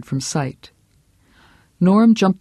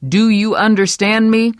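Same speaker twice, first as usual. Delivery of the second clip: louder, higher demand; stern demand; 7 semitones higher, 5 dB louder than usual. Acted. Husband demanding Vera understand him, stern. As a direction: press her for an answer. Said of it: "repeated louder".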